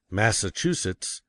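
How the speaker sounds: Massachusetts slowly, every syllable equally weighted; Massachusetts measured out syllable by syllable; equal stress. Shown as a demonstration. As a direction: give each syllable of Massachusetts the same weight. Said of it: "emphasizing every syllable equally".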